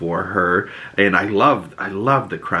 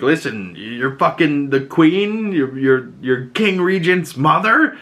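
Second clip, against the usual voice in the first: higher-pitched, indignant retold challenge; mock confrontation; 7 semitones higher than usual. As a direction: call him out in mock outrage. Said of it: "and calls him out".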